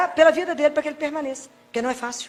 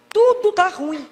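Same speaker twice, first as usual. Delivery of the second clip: higher, put-on whining voice; mock whine; 4 semitones higher, much slower than usual. Preacher imitating a grumbling churchgoer, put-on whine. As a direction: whine it like a sulky complainer.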